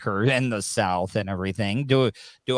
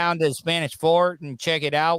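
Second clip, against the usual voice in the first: hammed-up Southern tour-guide welcome; mock Southern accent; 4 semitones higher, 3 dB louder than usual. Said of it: "What about y'all".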